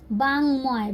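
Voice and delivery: "बांगमय" as baang-moy, nasal ng then m; m sounded. Shown as a demonstration. Teacher shows learners the result, "बांगमय" said baang-moy. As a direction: keep the m after ng in "बांगमय". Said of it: "तो भी हम लोग म को पढ़ेंगे".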